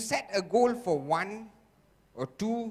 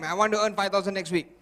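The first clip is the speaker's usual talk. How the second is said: firm, fast affirmation; 4 dB louder, much faster than usual. Shown as a demonstration. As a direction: say I want to earn it quickly, louder, with conviction. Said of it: "One more time".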